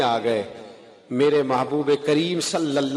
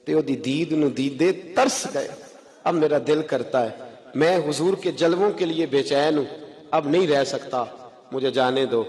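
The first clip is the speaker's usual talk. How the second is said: gentle, lowered plea to the uncle; soft humble tone. Acted. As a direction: ask softly, head bowed. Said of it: "تو ہلکے لب و لہجے میں".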